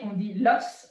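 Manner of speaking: l'os with the S sounded, lɔs; pronounce the S. Shown as a demonstration. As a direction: say l'os with a clear final S. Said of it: "on prononce le S".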